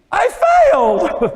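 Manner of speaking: high, loud mock wail on "failed"; teacher mimicking the student's tearful answer; imitating a crying girl. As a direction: whimper it like a defeated student. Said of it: "She started crying".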